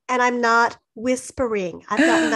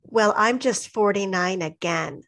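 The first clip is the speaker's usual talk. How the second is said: low flat tone; 3 semitones lower than usual. Retold or imitated. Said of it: "saying it sort of in a low tone and flat".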